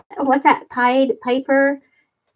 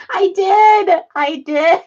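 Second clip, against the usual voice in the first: laughing confession; 2 semitones higher, 4 dB louder, slower than usual. Real, not acted. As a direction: own up through tears of laughter. Helpless laughing fit after slip.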